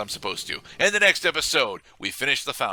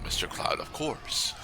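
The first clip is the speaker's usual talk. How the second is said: whispered; 7 dB quieter, slower than usual. Real, not acted. Dry aside to co-host.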